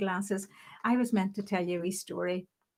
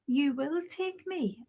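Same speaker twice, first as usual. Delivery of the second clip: slow, higher, every word weighted; insistent demand; 6 semitones higher, slower than usual. Retold or imitated. Nurse ordering the boss to drive her, slow and insistent. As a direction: lay down the law word by word. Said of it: "tapping his desk".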